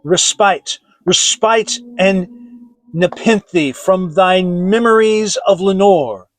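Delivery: loud, high, pleading outcry; impassioned cry. A narrator's reading. Grieving lover crying out to the raven. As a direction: beg the bird to let him forget. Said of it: "I cried".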